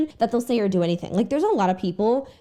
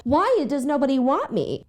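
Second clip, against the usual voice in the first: mock whiny; 6 semitones higher than usual. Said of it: "for you to be like".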